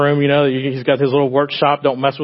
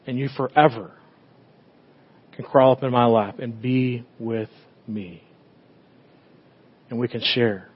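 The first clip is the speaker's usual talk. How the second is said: tender fatherly voice; 2 semitones lower, 3 dB quieter than usual. Acted. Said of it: "It's a place of saying".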